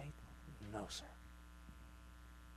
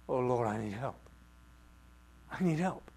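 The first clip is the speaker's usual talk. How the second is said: crying out; 3 dB louder than usual. Acted. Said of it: "She still cried out".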